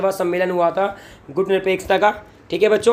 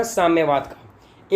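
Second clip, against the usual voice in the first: slow answer; 2 semitones lower, much slower than usual. Shown as a demonstration. Teacher stresses the quiz answer.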